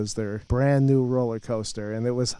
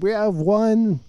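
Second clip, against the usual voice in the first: ride operator voice; 7 semitones higher, 3 dB louder than usual. Retold or imitated.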